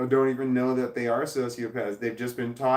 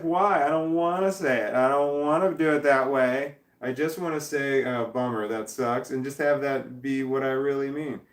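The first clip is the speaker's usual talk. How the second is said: whiny protest; 3 semitones higher than usual. Retold or imitated. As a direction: complain like a stubborn kid who won't comply. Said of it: "And we're just like".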